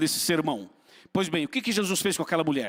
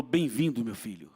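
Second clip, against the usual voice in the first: tender welcome; 5 semitones lower, 5 dB quieter than usual. Retold or imitated. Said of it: "e falou".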